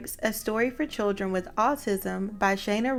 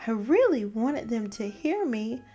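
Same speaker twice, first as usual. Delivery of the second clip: gentle storybook read-aloud; reading to children; 3 semitones higher than usual. A narrator's reading. Host reading a children's book to young listeners, storybook read-aloud. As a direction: read it like story time for kids.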